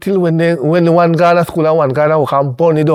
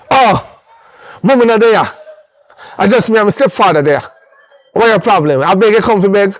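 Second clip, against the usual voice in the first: mocking a rude girl; 2 semitones higher than usual. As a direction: mimic the cheeky stepdaughter talking back. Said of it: "me say to the little girl".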